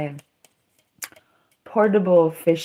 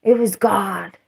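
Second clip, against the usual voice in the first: whispered awe. Real, not acted. Awed whisper.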